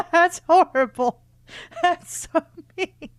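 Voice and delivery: high, loud laughing shock; laughing protest. Real, not acted. Reader reacting to the letter's threat, laughing in mock outrage. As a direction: squeal it through laughter.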